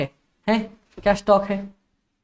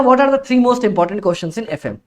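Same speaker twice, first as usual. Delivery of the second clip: slow deliberate; slower than usual. Shown as a demonstration. Teacher reads key question.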